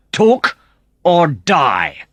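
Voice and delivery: high, loud threat; angry shout. Acted. Antonio threatens Matt with the gun, angry high shout. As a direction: spit out the threat. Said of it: "Antonio shouted".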